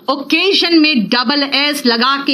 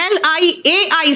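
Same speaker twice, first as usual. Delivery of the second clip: slow letter spelling; 4 semitones higher, much slower than usual. Shown as a demonstration. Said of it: "slow spelling".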